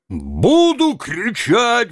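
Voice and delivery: high, loud, slow defiant bellow; bawling. A narrator's reading. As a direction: yell it back defiantly. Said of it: "вопил Тарантьев".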